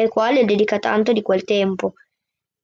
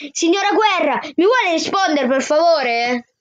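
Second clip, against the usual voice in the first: higher, half-hearted full-voice shout; the boy yelling at Signora Guerra; 5 semitones higher than usual. Acted. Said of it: "tiro fuori tutta la voce che ho". (grido recitato, più acuto)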